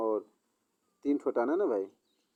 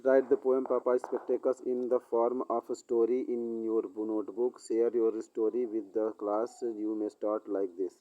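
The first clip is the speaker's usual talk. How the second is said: dictation pace, every word spaced out; slow textbook reading; much slower than usual. Acted. Teacher reads the exercise to the class, slow dictation pace. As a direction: read the exercise out slowly so students can follow.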